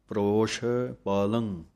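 ਪ੍ਰੋਸ਼ said with ਰ joined to ਪ; ਪ੍ਰੋਸ਼ as one tight syllable, then ਪਾਲੰ. Shown as a demonstration. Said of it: "ਪਾਠ ਹੈ".

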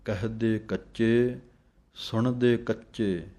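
ਕਹਦੇ said plainly without the nasal ਕਹਿੰਦੇ sound, slowly; ਕਹਦੇ not ਕਹਿੰਦੇ. Shown as a demonstration. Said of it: "ਕਹਿੰਦੇ ਨਹੀਂ ਬੋਲ ਦੇਣਾ".

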